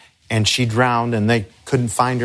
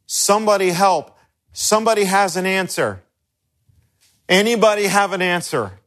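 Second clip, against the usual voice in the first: higher, pleading call for help; lightly acted cry of someone lost in a crisis; a hint of a desperate bystander begging for answers; panicked plea; 6 semitones higher than usual. People in crisis calling for help.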